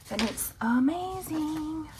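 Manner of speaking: excited. Real, not acted. Praising her cake.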